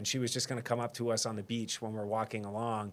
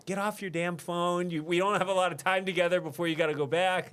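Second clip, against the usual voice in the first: higher-pitched mock scolding; retold telling-off, pitched up; imitated yelling fiancée; 7 semitones higher than usual. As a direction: nag with urgency, no real shouting. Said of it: "yelling at me".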